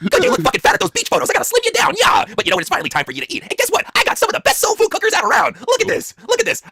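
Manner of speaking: high, overbearing wife voice; Stephanie. Acted. Wife announcing food to starved husband, high and bossy. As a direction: pitch it way up and taunt.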